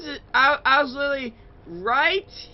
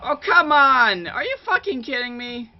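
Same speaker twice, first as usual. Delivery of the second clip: frustrated outburst; 3 semitones higher, 6 dB louder than usual. Real, not acted. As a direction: blurt it out in disbelief. Gamer just got caught.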